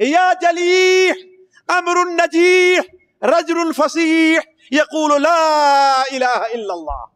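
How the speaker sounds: slow, ringing mock call from the idol; loud call. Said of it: "کہا زور سے یہ آواز آئی".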